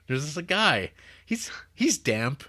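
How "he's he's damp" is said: slow hushed whisper; creepy whisper. A narrator's reading. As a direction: whisper it like a spooky secret. Creepy figure in the box.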